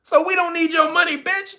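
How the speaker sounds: high pitched boasting shout; mock president shouting. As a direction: yell the gold news at America. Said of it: "He said".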